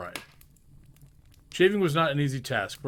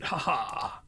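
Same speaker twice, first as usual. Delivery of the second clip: a glad hearty laugh; splendid laugh. A narrator's reading. Scrooge by the fireplace, bursting into a glad laugh. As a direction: laugh out like a man newly freed. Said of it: "it was a splendid laugh".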